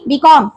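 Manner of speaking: बी कॉम with the weight on कॉम; बी कॉम, second syllable stressed. Shown as a demonstration. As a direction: lean on कॉम in बी कॉम. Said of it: "if you put the stress mark on C".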